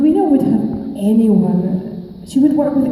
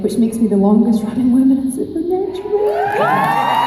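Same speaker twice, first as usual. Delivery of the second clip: proud boast; 7 semitones higher than usual. Real, not acted. Boasting record to fans.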